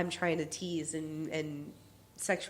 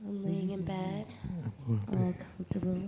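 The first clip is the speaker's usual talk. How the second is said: sleepy voice; 4 dB quieter than usual. Shown as a demonstration. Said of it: "That's the sleepy voice".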